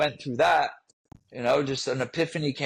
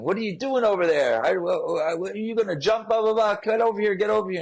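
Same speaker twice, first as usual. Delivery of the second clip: mock British police officer yelling, much higher; half-hearted British accent, pitched way up, calling out; imitating British shout; 8 semitones higher than usual. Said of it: "started screaming in a crazy British accent".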